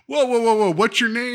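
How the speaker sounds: hammed-up alarmed cop trying to calm him; imitating startled detective. Detective reacts to screaming suspect, loud mock alarm. Detective calming panicked man.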